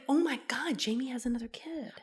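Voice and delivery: hushed, shocked whisper; whispered thought. Pretend. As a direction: gasp it in a whisper. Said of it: "So you think".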